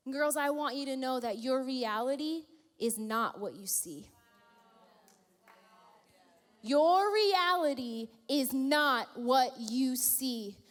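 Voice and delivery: sincere preaching; earnest preaching. Real, not acted. Preaching to girls.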